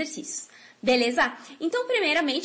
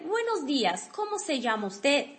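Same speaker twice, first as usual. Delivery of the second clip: model sentence. Shown as a demonstration. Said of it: "a primeira frase que nós temos é".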